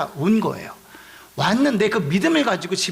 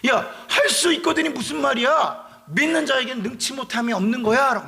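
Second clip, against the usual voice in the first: scolding the father; 4 semitones higher than usual. Retold or imitated. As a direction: chide him like a teacher. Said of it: "그 아버지를 요번에 또 꾸짖으세요".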